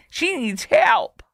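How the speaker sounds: high, drawn-out fake plea; exaggerated sarcastic concern; mock pity. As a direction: wail it in pretend sympathy.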